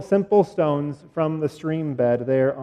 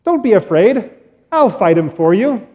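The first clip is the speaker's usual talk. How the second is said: put-on confident boy; 3 semitones higher than usual. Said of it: "he says".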